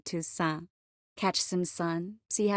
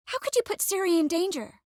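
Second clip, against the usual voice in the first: reproachful; 10 semitones higher than usual. Acted. Angry reproach over Ciri's safety.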